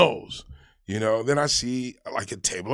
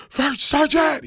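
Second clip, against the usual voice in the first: startled shout; 6 dB louder, slower than usual. Retold or imitated. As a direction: jump up and shout the rank, much higher and louder. Startled private snaps to attention.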